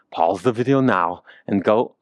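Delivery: a light hint of a Dutch accent imitating Wim Hof; Wim Hof impression. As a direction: toss off a lightly voiced Dutch-accented coaching line. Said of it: "I always wanna imitate Wim Hof".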